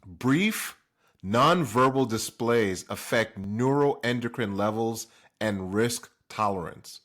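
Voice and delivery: slow, careful reading of a study title. Shown as a demonstration. Speaker reading a study title to viewers, slow and deliberate. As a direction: read each word out deliberately. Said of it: "I'm gonna read it".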